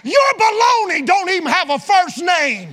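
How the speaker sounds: loud, high, laughing jab; laughing punchline. Real, not acted. Preacher joking to the congregation, loud and laughing. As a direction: toss the joke out laughing.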